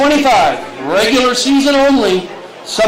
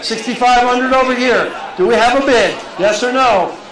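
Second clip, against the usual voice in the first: brisk, rising auction calling; auctioneer calling; 2 semitones higher than usual. Acted. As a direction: keep the bids moving.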